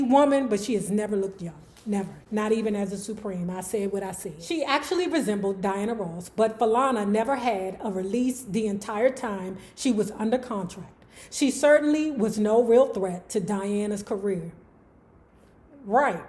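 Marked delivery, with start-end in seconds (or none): 4.4-14.5 measured read-aloud of an article; narrating from the page. Real, not acted. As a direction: read the written passage out evenly. Reads article between own chat.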